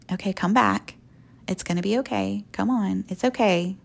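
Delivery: understated, patient reassurance; gentle coaxing, not hollering. Retold or imitated. God coaxing someone back to the start, gentle reassurance. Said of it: "He's not standing there hollering and screaming".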